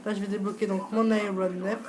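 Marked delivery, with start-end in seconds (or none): 1.1-1.8 lightly put-on English accent on the name; petit accent anglais. Joueur nommant son avion à ses spectateurs, léger accent anglais. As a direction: give the words a hint of English pronunciation. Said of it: "mon petit accent anglais".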